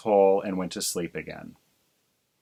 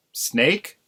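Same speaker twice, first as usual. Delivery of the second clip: puzzled; 5 semitones higher than usual. Acted. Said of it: "said Mister Crow".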